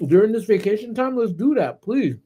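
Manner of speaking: imitating boyfriend. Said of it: "my boyfriend was like".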